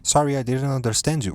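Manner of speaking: mock confused asking. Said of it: "I always have to say".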